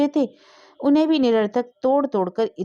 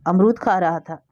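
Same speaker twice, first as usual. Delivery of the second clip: timid, fearful; 3 dB louder than usual. A narrator's reading. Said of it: "उसने डरते हुए कहा".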